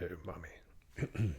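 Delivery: mock posh royal, slow and drawn out; a hammed-up posh royal calling mummy; King Charles. Impressionist playing a royal calling his mother, posh and slow. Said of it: "try and talk like King Charles".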